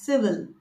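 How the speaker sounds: "civil" as SIV-ul; correct pronunciation. Shown as a demonstration. Coach summing up the word, correct pronunciation. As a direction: say "civil" with a weak second vowel. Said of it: "It should be pronounced as".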